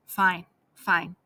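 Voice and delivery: unvoiced whisper; whispered agreement. Smuggler agreeing to the plan, whispered low.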